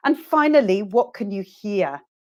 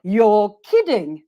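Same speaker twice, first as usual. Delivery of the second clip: slow and louder, "kidding" swooping down; exaggerated model intonation; 5 dB louder, slower than usual. Shown as a demonstration. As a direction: lean hard on "kidding" with a big falling tune. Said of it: "listen to my intonation".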